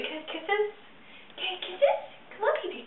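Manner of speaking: high cooing question to the cat. Real, not acted. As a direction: coax the kitty in a high sweet voice. Asks cat for kisses.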